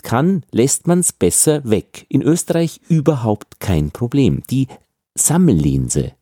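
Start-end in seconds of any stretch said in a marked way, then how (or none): 5.2-6.1 "Sammellinse" with unbuzzed, hissed S sounds, pitched lower; voiceless S. Shown as a demonstration. Teacher shows the Austrian habit, voiceless S in "Sammellinse". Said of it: "das ist das stimmlose S".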